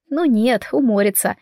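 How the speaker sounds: plain reading voice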